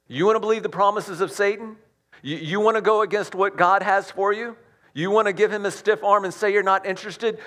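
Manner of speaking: fiery rhetorical challenge; challenging preacher. Acted. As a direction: confront the congregation.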